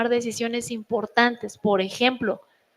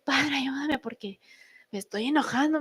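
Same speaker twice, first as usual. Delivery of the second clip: quiet prayer for calm; 7 dB quieter than usual. Retold or imitated. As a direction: pray under your breath for patience. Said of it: "respiro diez veces y le digo".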